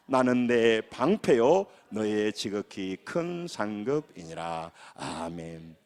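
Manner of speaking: slow, low measured recitation, falling away at the end; scripture reading aloud. Real, not acted. Pastor closing the verse read with congregation, scripture reading aloud. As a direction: read it slowly, settling into the amen. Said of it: "큰 소리 읽으면 시작".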